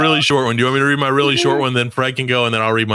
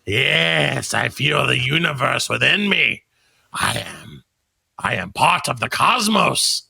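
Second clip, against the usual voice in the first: Skeletor voice. Acted. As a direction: gloat like an evil overlord. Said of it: "I have to get my voice".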